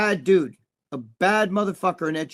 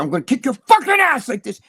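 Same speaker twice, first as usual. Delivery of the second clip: retold threat; 7 semitones higher, 7 dB louder than usual. Retold threat through fence.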